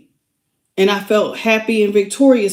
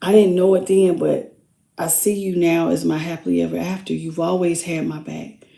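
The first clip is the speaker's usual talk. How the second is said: softer, gentle pleading olive-branch voice; tender channeled apology; 4 semitones lower, 4 dB quieter than usual. Acted. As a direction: speak as the remorseful one, softly asking forgiveness.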